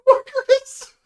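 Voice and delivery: high, loud startled yell; surprised shout. Real, not acted. Surprised outburst.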